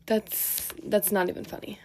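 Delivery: stifled laugh, then trying to be serious. Real, not acted. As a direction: laugh through the first word, then compose yourself. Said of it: "Like, I'm laughing, but that's not funny".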